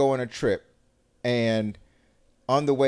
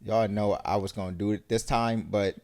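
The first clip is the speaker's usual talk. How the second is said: sheepish excuse; 4 semitones lower, 5 dB quieter than usual. Acted. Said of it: "then they hit you with".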